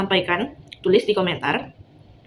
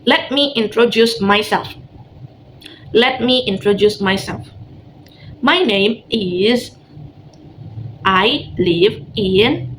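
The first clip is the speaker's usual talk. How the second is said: slow, clear teacher model; slow model reading; much slower than usual. Shown as a demonstration. Teacher models a line for the class to repeat, slowly. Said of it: "repeat after me".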